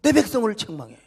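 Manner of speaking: loud, high-pitched indignant shouting; preacher thundering as an outraged God; God's fierce rebuke. Acted. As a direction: roar at Satan in defence of your people. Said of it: "이렇게 책망해 주시기를 바랍니다".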